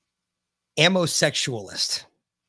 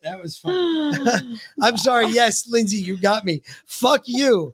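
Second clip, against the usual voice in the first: still laughing; 7 semitones higher than usual. Real, not acted. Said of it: "I was biting my tongue".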